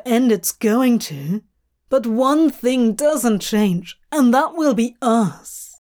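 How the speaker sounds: lightly voiced demon, earnest and emphatic; heartfelt speech in measured phrases; impassioned demon. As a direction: pour out affection with fond exasperation.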